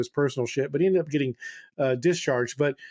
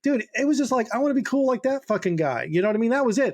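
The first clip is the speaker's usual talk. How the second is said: mock dumb motive; 7 semitones higher than usual. Mocking his own naive motive.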